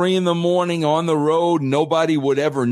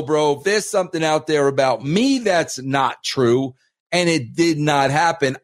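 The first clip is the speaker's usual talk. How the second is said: ordinary delivery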